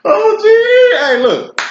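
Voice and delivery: very high, loud laughing squeal coming down into words; laughing hard. Real, not acted. Speaker cracking up over Cisco's blond hair, laughing. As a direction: squeal through real laughter, then try to carry on. Helpless laughter at own joke.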